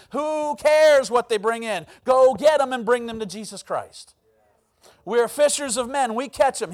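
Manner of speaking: loud, drawn-out preacher's cry; rally the church at full voice; forceful exhortation. Real, not acted.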